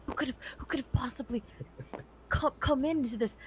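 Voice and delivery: hammed-up pretend bewilderment; feigned shock. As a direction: make the lie transparently obvious. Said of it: "your very clear lie".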